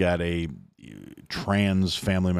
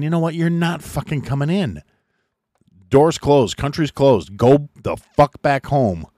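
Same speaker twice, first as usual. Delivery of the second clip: mock border guard yell; 5 semitones higher, 4 dB louder than usual. Soldiers at the border telling migrants they're done, mock yell. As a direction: bark it like a soldier slamming the door.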